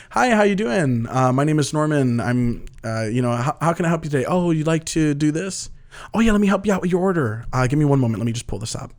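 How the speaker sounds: a light, polite service-desk voice, only a little changed; customer service voice. Shown as a demonstration. Store clerk greeting a customer, lightly done customer service voice. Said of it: "it's that voice".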